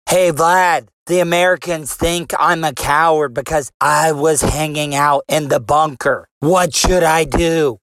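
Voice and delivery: lightly voiced Trump, barely shifted from own voice; a hint of a half-hearted Trump impression. Mock phone call to Putin, lightly done Trump voice. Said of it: "my best impersonation of this phone call".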